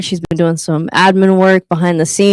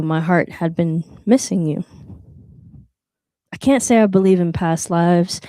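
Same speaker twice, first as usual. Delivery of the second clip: poem recitation. Acted. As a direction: read it tenderly, like a love poem.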